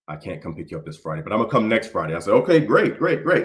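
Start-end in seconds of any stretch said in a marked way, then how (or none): 0.1-2.1 father cancelling. Retold or imitated. Father cancels again, promises next week. 2.3-3.4 put-on higher, eager young son; a kid thrilled his dad will come; excited boy. Boy excited about dad's promise.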